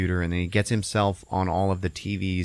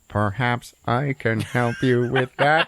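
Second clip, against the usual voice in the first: slow, mannered character voice; put-on mystery helper voice; 3 semitones higher, 3 dB louder, slower than usual. Unseen character stepping in to help, slow theatrical voice. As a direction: deliver a drawn-out theatrical offer of help.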